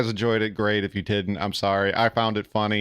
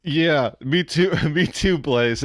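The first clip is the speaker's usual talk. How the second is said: excited agreement; 5 semitones higher, slower than usual. Real, not acted. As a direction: gleefully agree with the chat. Agreeing with chat, laughing.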